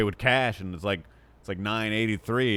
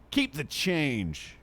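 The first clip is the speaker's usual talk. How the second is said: slow, drawn-out, slightly higher keep the change; smug tipper; 5 semitones higher, 3 dB quieter, much slower than usual. Retold or imitated. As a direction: hand over two dollars like a grand gesture. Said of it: "What if he hands her, like, two dollars?".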